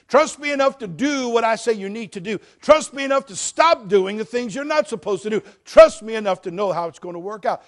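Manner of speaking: full-force preaching. Acted. Pastor assuring the church God never fails, full-force preaching. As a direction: pound the assurance home to the congregation.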